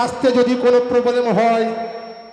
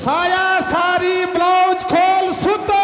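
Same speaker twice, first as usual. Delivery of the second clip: hawker calling out; 4 semitones higher, slower than usual. Acted.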